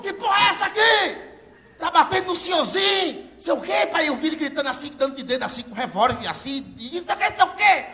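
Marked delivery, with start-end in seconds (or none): 0.0-3.9 cop yelling. Retold or imitated. Bruno bursts in yelling.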